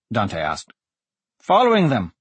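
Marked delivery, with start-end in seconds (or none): 1.4-2.1 put-on high, raised little boy's voice; small voice. A narrator's reading. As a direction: pipe up like a small boy reporting. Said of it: "a small voice said".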